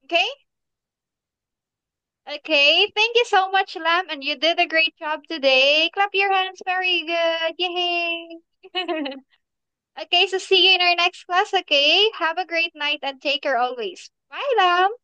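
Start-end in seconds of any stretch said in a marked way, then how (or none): 2.9-14.9 cheerful praise. Real, not acted. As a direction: cheer the little one on. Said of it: "praising the child at the end".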